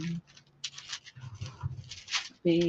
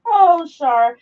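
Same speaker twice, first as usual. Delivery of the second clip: bright, loud hello to a viewer; excited greeting; 7 semitones higher, 9 dB louder than usual. Real, not acted. Greeting viewer Shar in the live chat, excited. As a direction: greet her with a burst of joy.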